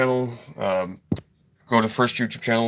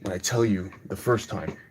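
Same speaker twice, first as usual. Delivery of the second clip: much softer, bitter cursing under his breath; seething mutter; 2 semitones lower, 7 dB quieter than usual. Real, not acted. Angry teacher cursing Ty and his friends under his breath.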